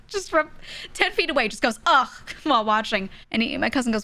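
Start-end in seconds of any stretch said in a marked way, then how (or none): 1.9-2.1 imitating a revolted 'ugh'; disgusted groan. Wife watching meat from ten feet away, disgusted groan. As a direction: groan as if the sight turns your stomach.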